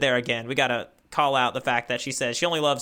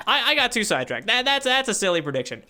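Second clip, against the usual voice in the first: laughing; 8 semitones higher, 4 dB louder than usual. Real, not acted. Laughing at own prediction.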